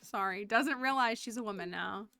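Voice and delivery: put-on a light Latina accent, motherly and teasing; lightly Latina mom. Miss Carmen teasing the kids about chores, light Latina accent.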